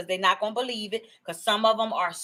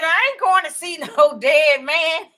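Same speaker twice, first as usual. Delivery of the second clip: higher, louder, laughing as she refuses; laughing refusal; 6 semitones higher, 6 dB louder than usual. Retold or imitated. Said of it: "And she said".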